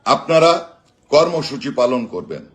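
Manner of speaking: rousing rally speech with slogans; booming rousing general speech. Acted. Rallying political speech, live.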